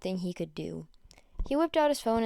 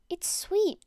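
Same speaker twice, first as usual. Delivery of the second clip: hushed breathy whisper of wonder; awed little whisper; 8 semitones higher than usual. Acted. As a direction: breathe it out in awe. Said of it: "she whispered".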